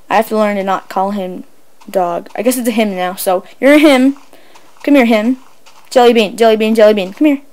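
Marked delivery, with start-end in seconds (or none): 4.8-7.4 calling the dog. Real, not acted. Calling the new dog over.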